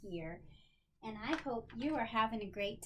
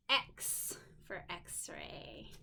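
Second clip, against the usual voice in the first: whisper; 5 semitones lower, 5 dB quieter, much slower than usual. Real, not acted. Phonics card reading.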